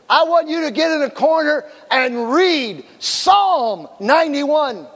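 high, emphatic commanding delivery; acted stern orders. Pastor sending a fighting couple to their corners, acted firm command.

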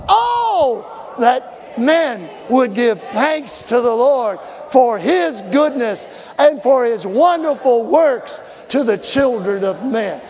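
slow, fervent read of the verse; scripture reading. Acted. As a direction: proclaim each word slowly.

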